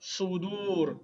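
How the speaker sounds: Sudur with both vowels drawn out; teacher's lengthened Sudur for repeating; say-along model. Shown as a demonstration. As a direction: stretch Sudur so the class can join in. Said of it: "Say with me".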